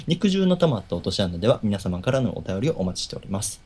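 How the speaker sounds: talking through a yawn. Real, not acted. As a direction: say it mid-yawn, mouth stretched. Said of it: "あくびしながら言うなよ。". (あくびしながら)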